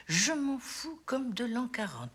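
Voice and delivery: slow, drawn-out dismissal; deliberate, relished brush-off; emphatic indifference. Acted. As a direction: stretch out how little you care. Mother rejects son's problems.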